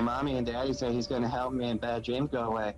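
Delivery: lightly voiced child with a hint of southern accent; girl reading her diary with a slight southern twang; little girl voice. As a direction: read it as a small girl's diary. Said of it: "What kind of voice was that?".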